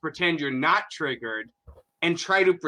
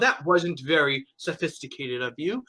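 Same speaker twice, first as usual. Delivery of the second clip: mocking tut-tut. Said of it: "This kind of tut-tutting".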